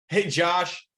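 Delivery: put-on easy, familiar hello to an old acquaintance; familiar greeting. Shown as a demonstration. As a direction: greet him like a lifelong friend. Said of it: "say it like you've known 'em forever".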